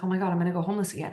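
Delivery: rushed, understated mock panic; retold fear. Driver retelling fear of homelessness, lightly acted rushed panic. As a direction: rattle off the worry, retelling old fear. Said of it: "I was afraid I was gonna go".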